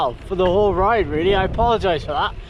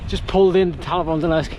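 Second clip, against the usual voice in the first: cowboy drawl; 2 semitones lower than usual. Pretend. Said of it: "I sound like a cowboy".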